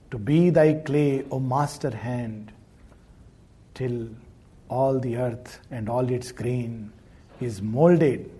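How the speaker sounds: low, measured reading of devotional verse; poem recitation. Acted.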